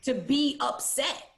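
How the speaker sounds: slow, deliberate reassurance; slowly spoken comfort; slow affirmation. Shown as a demonstration. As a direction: say it slowly like a gift. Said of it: "Let's say it".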